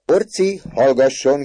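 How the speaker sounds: very high, loud hushing; amused shout. A narrator's reading. Mother hushing her son, amused shout. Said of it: "kiáltott kacagva a mama".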